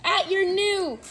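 excited ringside wrestling commentary; play-by-play commentary. Acted. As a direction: call the match live, hyped up.

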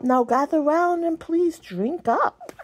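witch voice. Acted. Witch offering potion.

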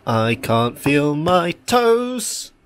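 slow, drawn-out, strained with cold; shivering, dragging the words out; freezing cold. Real, not acted. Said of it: "'cause it's cold".

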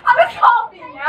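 laughing. Real, not acted. Laughing at the guess.

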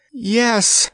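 put-on high, far-off young voice; distracted groan. Prince groaning to Eartha, high and distracted. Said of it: "groaned Tatters distractedly".

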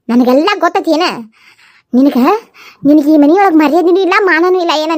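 a touch of angry scolding; understated angry accusation in a family fight; accusing quarrel. Acted. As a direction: accuse her bitterly of jealousy. Sisters-in-law quarrel.

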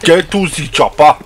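put-on German accent, badly done; German accent that slips toward Nigerian; mock German accent. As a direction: do a clumsy German-accent action hero. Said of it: "Nigerian trying to do a German accent".

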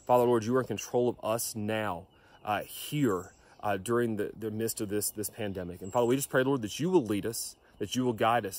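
earnest, steady prayer voice; closing prayer. Acted. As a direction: pray it over the congregation.

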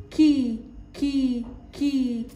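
slow, stretched كي with spread lips; drawn-out syllable demo. Shown as a demonstration. Teacher to first graders, slow syllable drill. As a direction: hold the كي long and clear. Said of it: "نشكل مقاطع حرف الك مع الحركات القصيرة".

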